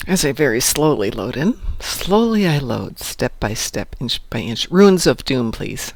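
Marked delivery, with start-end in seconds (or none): 0.1-4.7 mock dramatic. Mock-dramatic slow loading screen.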